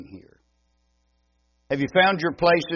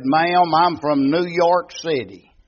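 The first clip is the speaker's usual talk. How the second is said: retold reply; 5 semitones higher, 5 dB louder, slower than usual. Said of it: "I said".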